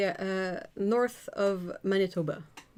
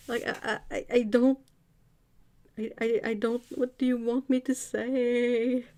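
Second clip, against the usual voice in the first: stammering, higher, mock exasperation; mock helpless; 5 semitones higher than usual. Retelling not being understood in Switzerland, mock helpless plea.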